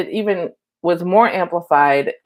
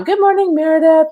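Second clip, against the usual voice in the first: bright high greeting, louder; excited; 12 semitones higher, 5 dB louder than usual. Real, not acted. Welcoming a viewer who joined the live stream: excited. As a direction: call out happily to a new arrival.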